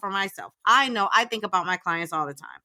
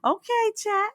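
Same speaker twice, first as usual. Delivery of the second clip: flustered reply; 12 semitones higher than usual. Retold or imitated. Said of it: "I'm like".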